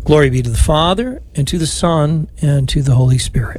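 even, devout prayer cadence, last line whispered; prayer recitation. Acted. Priest leading radio rosary, devout prayer recitation. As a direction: pray it aloud for the listeners.

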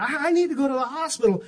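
matter-of-fact replay, stressing need; casual as if it were nothing; calmly understated. Shown as a demonstration. Preacher replaying his calm words to wife, understated. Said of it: "I said it just like that".

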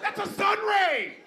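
high squealing mock woman. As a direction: shriek it high, hammed up. High-pitched mock reply.

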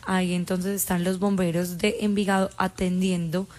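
measured, even breaking-news delivery; level, factual on-air announcement; news report. Real, not acted. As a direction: report it like a radio bulletin.

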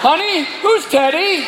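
slow, high suspicious question; comic jealous husband; suspicious spouse. Acted. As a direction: draw it out, probing for an answer. Husband confronting wife over parrot's words.

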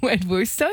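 Wed Worcester, 'wed wooster', w for R; can't say R's. Retold or imitated. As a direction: repeat the child's Wed Worcester. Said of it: "struggled to say his R's".

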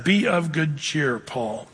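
slow and soft, a quiet comfort; the Lord soothing Paul, slow and soft; gentle comfort. Acted. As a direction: comfort a beaten man at night, slowly.

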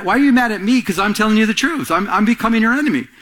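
ordinary talk, nothing marked

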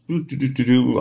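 idly doo-doo while searching memory; thinking doo-doo noise. Real, not acted. Filler noise while recalling a year.

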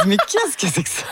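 high, laughing "what is this?"; laughing disbelief. Retold or imitated. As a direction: laugh through the bewildered question. Retelling her confusion on set.

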